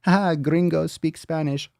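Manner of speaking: high, teasing imitation with a fake laugh; mocking viewers. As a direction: mimic them jeering in a high put-on voice. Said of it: "Most of you are like".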